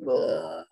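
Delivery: low, sagging "ugh"; mock groan of regret, dropped very low; retold queasy groan. Host recalling cheese an hour later, queasy groan. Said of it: "I was like".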